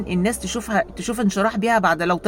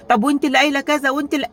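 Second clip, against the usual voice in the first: accusing quarrel; 6 semitones higher, 4 dB louder, faster than usual. Retold or imitated. Sisters quarreling, acted.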